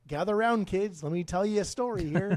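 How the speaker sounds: lightly voiced old storyteller grandpa; a hint of grandpa calling the kids close. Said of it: "That's my grandpa voice".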